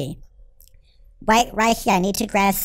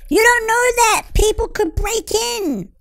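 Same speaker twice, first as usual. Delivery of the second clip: indignant outburst; 11 semitones higher than usual. Real, not acted. Arguing back at the game.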